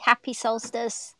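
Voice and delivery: whispered, slow greeting; soft whisper. Real, not acted. Friend whispers a solstice greeting to the host. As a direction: breathe the words out with no voice.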